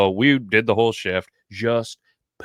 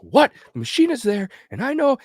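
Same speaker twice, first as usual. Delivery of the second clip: mock drunk outrage; 14 semitones higher, 6 dB louder than usual. Drunk buddy raging.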